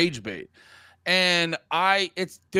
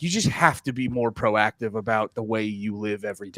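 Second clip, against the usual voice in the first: lecturing himself; 6 semitones lower than usual. Retold or imitated. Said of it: "I just go like".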